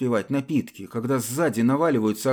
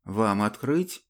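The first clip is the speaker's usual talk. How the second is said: gallant; slower than usual. Acted. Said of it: "галантно осведомился".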